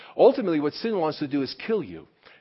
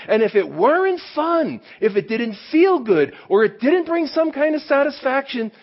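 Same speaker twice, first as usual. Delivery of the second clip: fervent preaching; 8 semitones higher than usual. Real, not acted. Preacher building on temptation.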